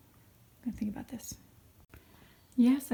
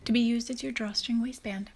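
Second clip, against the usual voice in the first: duidelijke instructiestem; tutorial voice-over. Acted. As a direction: leg het stap voor stap uit. Ingesproken naai-uitleg.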